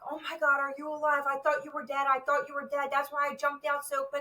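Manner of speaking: retold panicked partner. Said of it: "He was just like".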